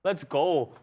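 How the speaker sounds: put-on a light Irish fighter accent, cheering; hint of an Irish brogue, celebrating the win; Irish Conor McGregor accent. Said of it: "that's a Molly McCannon, uh, accent right there".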